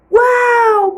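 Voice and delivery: put-on high, loud child's wonder; girl seeing the roses, awed; awed wow. A narrator's reading. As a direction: marvel like a small girl. Child sees rose garden.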